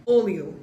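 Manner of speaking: Oleo said "OL-yo", the LH as L plus Y. Shown as a demonstration. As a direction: say Oleo with a Y glide after the L. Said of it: "H makes a Y sound".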